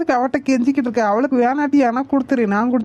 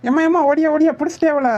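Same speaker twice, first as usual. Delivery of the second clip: higher-pitched call for help in a chase; urgent calling; 4 semitones higher than usual. Acted. Calls mother to help catch her. (அவசரமாக அழைப்பது)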